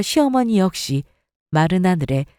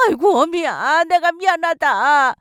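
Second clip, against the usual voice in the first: wailing mother-in-law; 8 semitones higher than usual. Acted.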